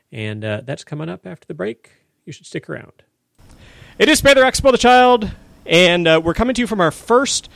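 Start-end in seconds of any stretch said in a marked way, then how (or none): 4.0-5.3 loud, higher, upbeat show-name announcement; excited radio hype. Real, not acted. Host hyping show name on air.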